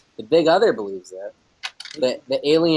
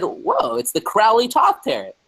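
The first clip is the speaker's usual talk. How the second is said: excited quote; 11 semitones higher, slower than usual. Retold or imitated. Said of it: "And I said".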